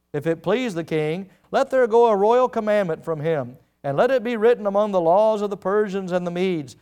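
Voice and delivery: measured, formal reading of the text; scripture reading. Acted. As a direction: read it out like holy writ.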